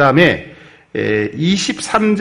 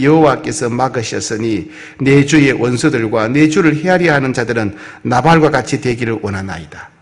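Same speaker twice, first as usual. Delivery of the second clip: scripture reading. Acted. Reads scripture aloud.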